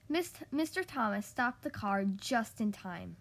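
measured storytime delivery with animated dialogue; children's story reading. A narrator's reading. Podcast host reads a requested picture book to kids, storytime reading. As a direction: read a picture book to little listeners, expressively.

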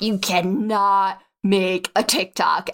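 a slow, lightly voiced stern inner critic; brain voice. Her doubting brain forbidding the TikTok, slow and stern. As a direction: lay down the law, slowly. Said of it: "my brain was like".

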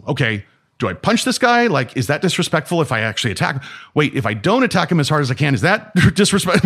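mock flustered second-guessing; confused dithering. Student told to punch the old grandmaster, flustered and confused. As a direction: dither aloud, unsure what is allowed. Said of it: "he's, uh, confused".

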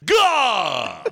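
home run call. Shown as a demonstration. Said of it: "Could you do a little play-by-play of baseball".

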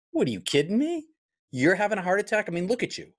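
high, disbelieving cry of surprise; retold friend, shocked and disbelieving at a fit man's heart attack; incredulous friend.

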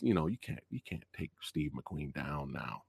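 usual speaking voice

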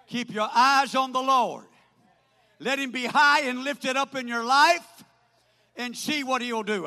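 urgent exhortation to the congregation; forceful preaching. Real, not acted. Preacher urging the congregation to look to God, forceful preaching. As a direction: preach it out, punching key words loud.

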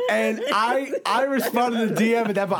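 can barely get it out for laughing; giggly retelling. Real, not acted. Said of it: "I'm dying laughing".

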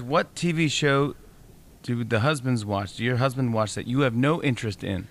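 slowly spelling out the question; slow, deliberate reread. Shown as a demonstration. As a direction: read it back slowly and clearly. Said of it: "what was the phrasing one more time".

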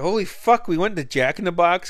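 high, astonished imitation of himself; retold shock. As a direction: act stunned at your own blackout. Shocked at blacked-out trip.

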